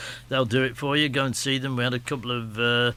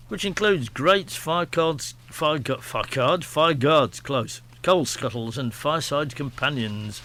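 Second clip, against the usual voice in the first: brisk, slightly raised announcer read of an advert; radio ad read; 2 semitones higher, 3 dB louder than usual. Acted. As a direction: sell the fireside shop like a local radio spot. Host reads the sponsor ad.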